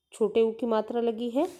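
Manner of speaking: ordinary delivery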